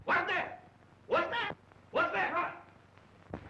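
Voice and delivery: scared yelp in the dark; startled fright. Acted. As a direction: jump at a sudden crash and call out. Man startled by the collapsing bed.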